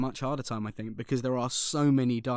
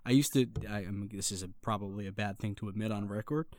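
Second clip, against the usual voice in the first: casual, convincing American accent; confiding in an American accent; 3 semitones lower than usual. Shown as a demonstration. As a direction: drop into American and stay there. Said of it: "Oh my gosh, you're really good".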